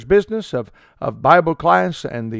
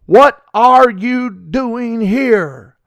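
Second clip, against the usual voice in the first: the Lord asking; 4 semitones higher, much slower than usual. Retold or imitated. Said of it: "the Lord is asking Elijah".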